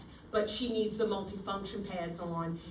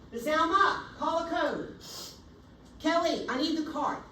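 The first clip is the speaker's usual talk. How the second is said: loud, high call for help; raised urgent shout; urgent code call; 7 semitones higher, 4 dB louder than usual. Shown as a demonstration. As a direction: command the team to act now. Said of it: "exactly how I would say it".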